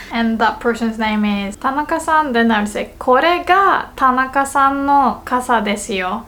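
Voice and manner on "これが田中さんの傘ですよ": これが raised and set apart; stress on これが. Shown as a demonstration. Telling Tanaka which umbrella is theirs, stress on これが. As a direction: lift これが before the rest. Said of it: "put emphasis on the word this".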